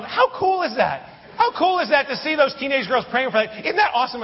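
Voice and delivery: retold excited outburst; excited exclaiming. Excitedly talking to no one.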